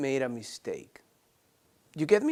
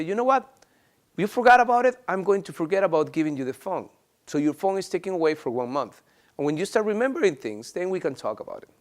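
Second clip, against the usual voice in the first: upset parent. Acted. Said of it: "you may get upset because of their answer and say".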